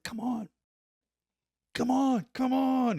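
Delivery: high call building from moderate to loud; getting wound up. Retold or imitated. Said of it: "getting all wound up".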